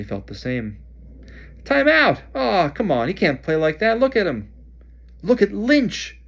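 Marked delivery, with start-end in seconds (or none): 1.6-4.5 high, loud protest over the crowd; indignant shout. Acted. Ron shouting at the referee, loud and indignant. 5.2-6.2 high, loud excited yell. Acted. Harry yelling to Ron over the crowd, excited. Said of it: "Harry yelled".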